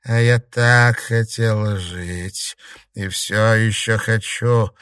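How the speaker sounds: slow, loud, high eerie crone voice; a dead old woman bargaining from the mirror; old ghost. A narrator's reading. Ghost of an old woman bargains with the club in slow eerie voice.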